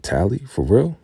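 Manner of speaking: high, rising shocked question; shocked disbelief. Retold or imitated. Andrew stunned that his long-lost love deserted, in shock. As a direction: hear about a lost love and gasp it out.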